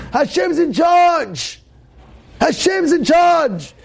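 high, slow, shouted sermon; preaching at full force. Acted. Rabbi rousing his students about trust in God, fiery preaching. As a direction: hammer the faith home to the crowd.

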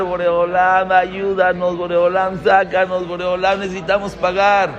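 pleading chant held on one level pitch; imitated crying out. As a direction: run the pleas together as a droning appeal. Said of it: "empezaron a gritar, a pedir, a clamar, a llorar".

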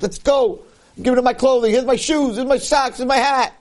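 high-pitched, rushing list of offers; acted eager urgency. Acting out boy giving everything away.

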